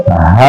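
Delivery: हा low and breathy, the sound pushed from the chest; low chest हा demo. Shown as a demonstration. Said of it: "सीने से आवाज आनी चाहिए".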